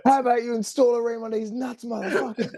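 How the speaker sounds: high-pitched jokey heckle; mock heckler. Co-host joining the imagined crowd protest, high mock heckle. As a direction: pile on with a squeaky mock taunt.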